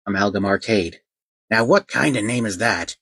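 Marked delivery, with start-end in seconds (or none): 1.5-3.0 unimpressed mocking. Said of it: "with an unimpressed yet mocking tone".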